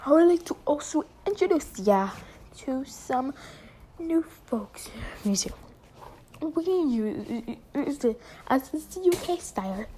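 mock British. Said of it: "the British accent".

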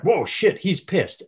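high-pitched startled reaction; taken aback. Acted. Onlooker realizing the guy is pissed, startled. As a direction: react as if caught off guard by his anger.

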